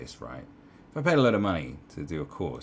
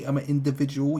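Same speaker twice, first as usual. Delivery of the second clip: mock meme line, louder; 7 semitones higher, 6 dB louder than usual. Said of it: "It was like".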